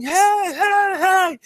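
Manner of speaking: very high-pitched retold yell; mock yelling. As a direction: imitate a frantic call, stretched and high. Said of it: "he starts yelling".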